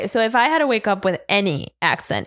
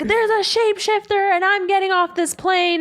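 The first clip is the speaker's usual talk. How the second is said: mock screaming passenger; 10 semitones higher than usual. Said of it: "she's screaming and she's like".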